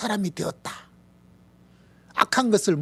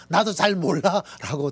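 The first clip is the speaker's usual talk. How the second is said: slow helpless reply; 3 semitones higher, 4 dB louder than usual. Retold or imitated. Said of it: "대답할 수밖에 없어요".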